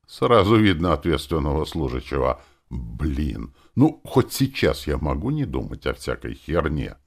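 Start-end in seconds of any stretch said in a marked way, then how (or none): none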